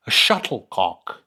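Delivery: put-on English accent, drawing the word out slowly; mock English accent. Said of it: "say that with an English accent".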